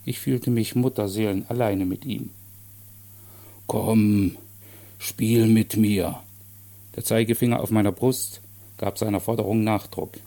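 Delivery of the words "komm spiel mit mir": fordernder Riese. Acted. Der Kranke fordert erneut.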